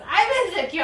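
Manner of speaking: hammed-up needy whine; mock wail. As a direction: blurt it out like a clingy game character. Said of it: "He goes".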